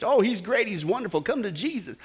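mock evangelistic sing-song; hypocritical cheer. Preacher mimics believers pitching Jesus to others, hypocritical cheer. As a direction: put on a hollow, gushing invitation. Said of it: "sending them the hypocritical message".

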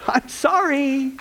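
slow, laughing I'm sorry; laughing apology. Real, not acted. Pastor laughing after teasing the men, slow laughing apology.

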